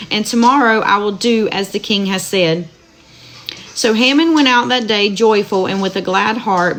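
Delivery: steady, measured Bible reading aloud; scripture reading. Acted. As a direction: read the verses evenly to listeners. Rereads the passage.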